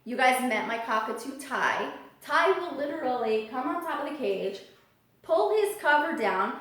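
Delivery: usual speaking voice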